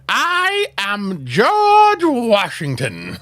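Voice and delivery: slow, high put-on Cockney accent; deliberately terrible Cockney accent, drawn out; bad Cockney. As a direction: play George Washington as a Cockney, badly. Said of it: "that's my Cockney".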